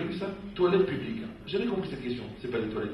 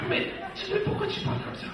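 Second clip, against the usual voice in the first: mock questioner. A congregant needling the rabbi, high and quizzical. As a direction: squeak it like a nagging questioner.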